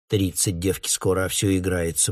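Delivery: mother grumbling fondly at her daughter's silliness. Acted. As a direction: mutter it under your breath, amused. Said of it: "проворчала мама".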